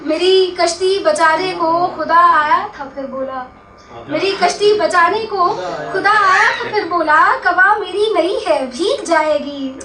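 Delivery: lilting mushaira couplet, falling on the refrain; expressive ghazal recital; poetry recitation. Acted. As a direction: recite the verse to the audience, phrase by phrase.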